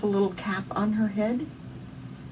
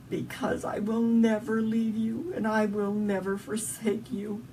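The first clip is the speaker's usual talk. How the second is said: gentle reassurance; 5 dB quieter than usual. Retold or imitated. God answering gently.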